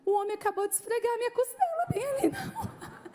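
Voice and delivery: high, scandalized report rising to a squeal; comic shock. Retold or imitated. Telling her employee about the street incident, shocked. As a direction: blurt it out in mock-horrified disbelief. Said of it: "eu fiquei chocada com aquilo".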